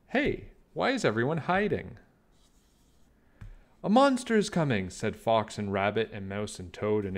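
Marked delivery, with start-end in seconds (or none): 0.1-2.0 higher, small bug voice; a little bug wondering innocently; curious Baby Bug. Acted. Baby Bug curious, chewing a leaf. 3.8-4.9 much higher, louder, fast alarm; the whole group warning at once; chorus of panic. Acted. All the animals warn together.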